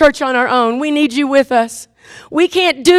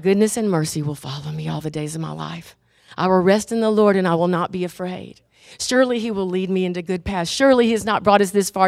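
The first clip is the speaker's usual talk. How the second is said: much softer, lower, steady declaration of faith; quiet confident confession; 5 semitones lower, 4 dB quieter than usual. Pretend. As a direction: speak the promise calmly and softly. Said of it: "it's like".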